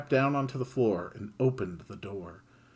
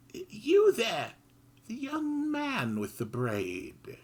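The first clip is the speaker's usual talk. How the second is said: little mouse voice; 12 semitones higher, slower than usual. Acted. Mouse calling to Kid, high and timid. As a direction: call out politely, tiny creature.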